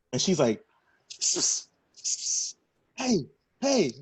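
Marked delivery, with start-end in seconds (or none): 2.9-3.9 mimicking hissed attention-getting calls and short heys; mock calling someone over like a pet; imitated animal-call summons. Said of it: "She giving me fucking doggy sounds".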